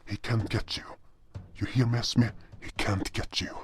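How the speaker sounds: soft whispered soothing; hushed reassurance. Acted. Hero whispers comfort to panicking Esme. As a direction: whisper comfort to a scared child.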